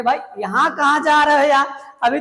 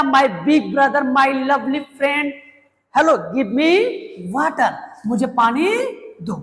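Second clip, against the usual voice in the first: polite request; much slower than usual. Shown as a demonstration. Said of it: "respect से बात करना होगा".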